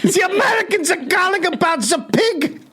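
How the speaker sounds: high shouted German clerk; German shop worker. Acted. Coworker shouting the American order across the German shop, high. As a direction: yell it across the shop floor.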